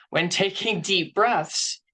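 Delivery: slow soothing demonstration; slow deep-breath demo. Shown as a demonstration. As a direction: breathe it out slowly as you say it. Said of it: "I know this sounds silly".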